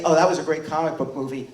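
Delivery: quick, offhand dismissal; dismissive. Shown as a demonstration. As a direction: toss it off like faint praise. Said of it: "we don't just say".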